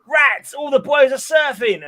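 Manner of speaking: high, loud, drawn-out cry; comic-book outburst. Acted. Sabrina sees the boys surfing, high mock outcry. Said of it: "So it's like".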